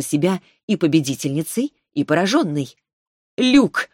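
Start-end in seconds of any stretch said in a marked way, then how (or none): 3.4-3.9 high, loud pleading cry. A narrator's reading. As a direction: cry his name in desperation. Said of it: "взмолилась Таис".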